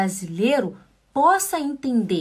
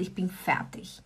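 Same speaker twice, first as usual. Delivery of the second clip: whispered ich bin fertig, out of steam; exhausted whisper; 4 semitones lower, 9 dB quieter than usual. Pretend. Acting out total exhaustion in a whisper. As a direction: breathe it out with nothing left. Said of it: "Eu tô esgotado".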